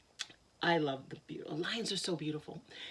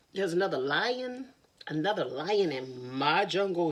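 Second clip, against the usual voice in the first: low lion voice; 3 semitones lower, 4 dB louder than usual. Acted. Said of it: "he said".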